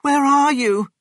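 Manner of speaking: loud, high searching call. A narrator's reading. Missus Cranky looks for her mother, calling out. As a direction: call out to someone lost. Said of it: "she called".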